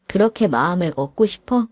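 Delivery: 그렇게 stressed, sarcastic rising question; mocking echo. Wife mocks her husband's wish, sarcastic rise. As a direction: throw his words back at him.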